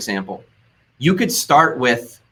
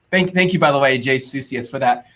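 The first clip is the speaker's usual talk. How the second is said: sarcastic. Real, not acted. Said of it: "I'm being a little sarcastic".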